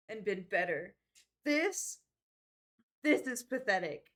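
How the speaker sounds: defiant outburst. Acted. Finley confronts the NPC.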